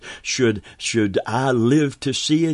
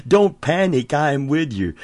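rousing exhortation; emphatic call; 5 semitones higher than usual. Acted. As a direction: call it out to the room. Preacher exhorting congregation.

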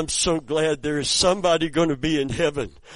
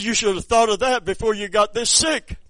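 stern rebuke; 9 semitones higher, 7 dB louder than usual. Retold or imitated. Harsh pastor scolds dying man.

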